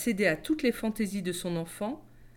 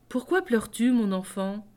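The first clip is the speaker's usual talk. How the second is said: kindly; 2 semitones higher than usual. Acted. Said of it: "avec une grande bonté dans la voix".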